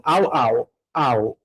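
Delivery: "au" said like a mild woof, rhyming with "cow"; "au" as one syllable, no real barking; like a barking dog. Shown as a demonstration. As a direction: say "au" as a spoken dog bark. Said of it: "Tipo um cachorro latino".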